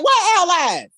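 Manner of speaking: high-pitched acted outburst of disbelief; incredulous. Kimberly challenges Zordon about his supposed allies, incredulous.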